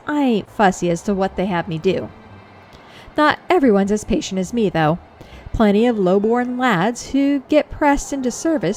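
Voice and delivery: lightly voiced folksy man-at-arms; a hint of rustic soldier; obliging common soldier. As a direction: offer gossip like a helpful foot soldier.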